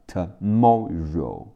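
"tomorrow" with the middle syllable stressed; marked word stress. Shown as a demonstration. Teacher points out word stress, "tomorrow" stressed on "mor". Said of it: "注意重音在猫的前面".

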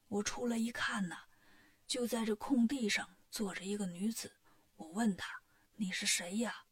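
put-on old temple master's low, hushed account; old abbot. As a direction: tell it like an old abbot confiding a worry. Old abbot's long retold account.

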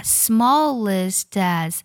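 "smallest as" slowly run together as one; linked reading. Shown as a demonstration. Teacher showing learners the linking in "smallest as", slowly linked. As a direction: link the t of "smallest" straight into "as". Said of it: "也要连读".

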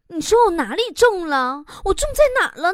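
wife questioning husband. Acted. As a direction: ask it as a wife fishing for reassurance. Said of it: "每天称完体重都要问老王".

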